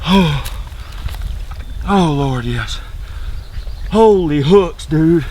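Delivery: high, thrilled hunter exclaiming; elated. Real, not acted. Elated after turkey kill.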